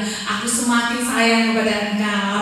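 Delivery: acted loving murmur at full voice; affectionate. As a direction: tell a spouse lovingly, drawing it out.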